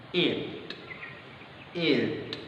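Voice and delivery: "it" soft, with the t lightly released; ending it. Shown as a demonstration. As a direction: say "it" softly, keep the pop. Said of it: "I di ending pronounced". ("it" dengan letupan T)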